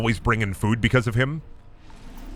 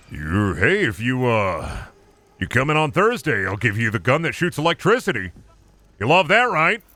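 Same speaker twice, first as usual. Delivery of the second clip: lightly voiced smarmy boss, upbeat; a boss dangling a perk, a touch cheesy; mock retail manager. Streamer mocking retail boss offering a gun, smarmy voice.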